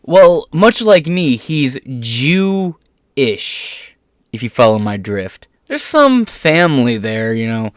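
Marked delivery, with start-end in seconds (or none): 1.4-3.9 "Jew-ish" yavaş, "ish" ayrı ve uzatılmış; "Jew-ish" iki ayrı hece, ağır ağır; stress on ish. Shown as a demonstration. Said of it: "Not Jewish, just Jew-ish".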